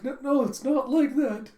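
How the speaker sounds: high, loud embarrassed protest; flustered denial. Acted. Yor denying it to the friend, high and flustered. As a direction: wave it off in a fluster.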